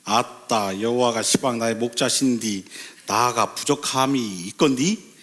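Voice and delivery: Jeolla-accented psalm reading; Jeolla dialect. Shown as a demonstration. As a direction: recite it with a put-on Jeolla twang. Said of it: "전라도 버전이 있어요".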